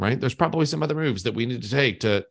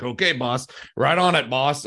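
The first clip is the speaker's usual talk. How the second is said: tongue in cheek. Retold or imitated. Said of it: "it's like tongue in cheek".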